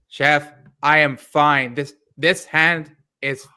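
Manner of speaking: slow, flat-toned imitation of a contestant; monotone impression. Imitating a contestant insisting to the chef, slow monotone. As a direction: drone it out slowly like a stubborn cook. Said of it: "You got the monotone down great".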